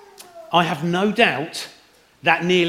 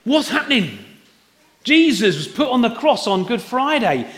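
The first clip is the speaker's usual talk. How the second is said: higher-pitched, mildly hammed-up dismay; acted despair; 5 semitones higher than usual. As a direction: voice the mourners' bewildered despair, pitched up. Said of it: "they were in despair. They were going".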